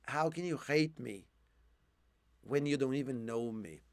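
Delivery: hoarse, quiet and low; raspy whisper. Real, not acted. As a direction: voice going, low hoarse quote. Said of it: "I'm losing my voice now".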